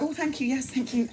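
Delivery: high, hushed demure thanks; proper pregnant woman. Retold or imitated. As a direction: sweetly thank them like a pregnant lady. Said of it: "Like a proper pregnant woman".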